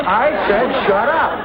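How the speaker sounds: slow, firm order; mock tough boss; forceful. Shown as a demonstration. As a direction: lay it on heavy. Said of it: "Raise your voice".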